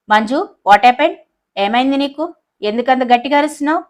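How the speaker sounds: a lightly voiced strict teacher demanding answers; stern professor. Professor scolds Manju for screaming in class, stern. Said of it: "సీరియస్గా అడిగాడు".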